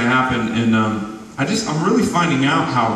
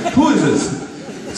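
slow, higher, laughing who-is-this; laughing disbelief; 8 semitones higher, much slower than usual. Retold or imitated. Retelling the pastor call, slow laughing higher disbelief. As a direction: draw it out through a laugh, much higher.

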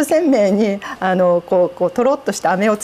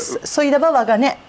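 Nanbu dialect; 3 semitones higher than usual. Shown as a demonstration. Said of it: "南部は".

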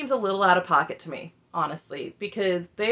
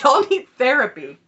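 loud, higher-pitched retold jab; punchy, raised-voice mock put-down; mock outburst; 5 semitones higher, 8 dB louder than usual. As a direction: blurt it out as an amused imitation. Retold attack after laughing.

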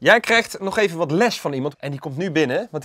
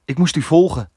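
tense thriller line; 5 dB louder than usual. Acted. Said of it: "Probeer de, de energie over te nemen".

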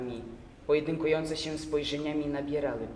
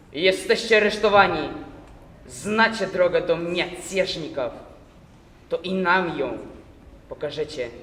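shouted, higher and louder; furious Cossack officer's shout; angry arrest; 4 semitones higher, 12 dB louder than usual. Acted. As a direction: bark the arrest at the prisoner. Cossack arrests the young man.

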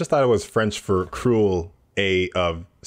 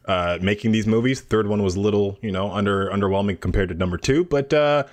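lightly voiced hockey bro interview; a hint of a gruff Canadian hockey bro; hockey player interview impression. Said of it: "That was my hockey player impression doing interviews".

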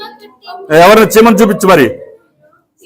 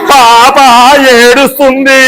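drawn-out, raised, put-on quaver; trembling demo; 5 semitones higher, slower than usual. Shown as a demonstration. Teacher showing a pupil how the baby cries, acted trembling. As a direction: stretch it out as if trembling. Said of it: "వణుకుతూ చెప్పాలి".

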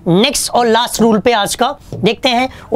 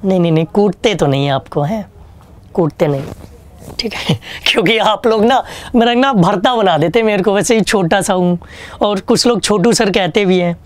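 ordinary talk

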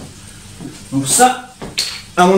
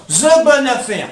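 drawn-out, high put-on voice; mock catchphrase; 6 semitones higher, slower than usual. To his viewers, hamming up his deal catchphrase in a showman voice. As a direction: stretch it out like a showman's slogan.

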